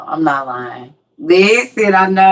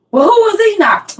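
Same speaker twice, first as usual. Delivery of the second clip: questioning; 10 semitones higher than usual. Retold or imitated. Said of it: "questioning friend".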